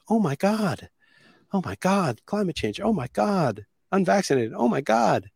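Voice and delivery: high-pitched alarmed Karen gasps; mock a panicky Karen, pitch way up. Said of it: "I became a Karen".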